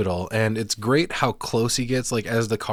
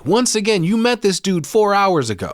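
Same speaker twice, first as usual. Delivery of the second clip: high, raised-voice comic rant; incredulous, pitched well up; exasperated outburst; 9 semitones higher, 4 dB louder than usual. Real, not acted. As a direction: protest loudly in baffled disbelief. Host mock-rants at character's loyalty.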